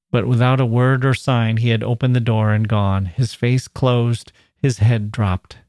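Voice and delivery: measured, even read-aloud narration; story narration. A narrator's reading. Narrator tells of the girl confronting him, measured narration.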